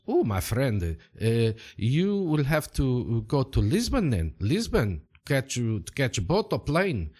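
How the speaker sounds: lightly voiced foreign local man; helpful local stranger. Local man advising a lost traveller, lightly accented character voice. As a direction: give directions as a friendly local.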